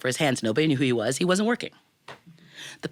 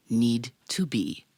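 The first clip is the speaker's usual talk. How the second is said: whispered punchline; 4 semitones lower, much slower than usual. Acted. Punchline whispered at story's end.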